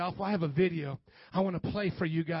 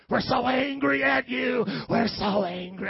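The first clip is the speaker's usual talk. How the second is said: slow, raised shout losing steam; hammed-up church anger that fizzles; badly faked rage, falling back; mock angry; 3 semitones higher, 3 dB louder than usual. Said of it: "I can't even do it".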